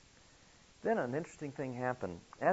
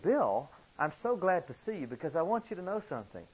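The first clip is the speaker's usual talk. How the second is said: higher-pitched, eager greeting as a retold quote; retold glad excitement; 6 semitones higher, 4 dB louder than usual. Nurse who ran down the hall stops Bill, retold glad excitement. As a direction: imitate a nurse eagerly stopping someone with news.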